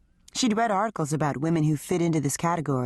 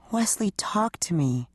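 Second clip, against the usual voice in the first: pleading. Acted. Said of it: "she pleaded".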